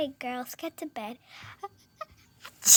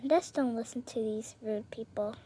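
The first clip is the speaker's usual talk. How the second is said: whisper; 5 semitones lower, 7 dB quieter than usual. Acted. Secret aside.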